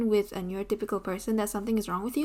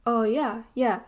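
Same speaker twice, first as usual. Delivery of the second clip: laughing agreement; 4 dB louder than usual. Retold or imitated. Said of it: "and I'm like".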